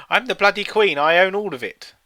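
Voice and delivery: hammed-up Queen claiming everything; mock greedy Queen. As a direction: play a greedy monarch.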